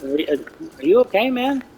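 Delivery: quick put-on voice rising high on man; mock-caring question to the angry guard; fake sympathy. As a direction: needle him with fake concern. Speaker keeps needling the guard.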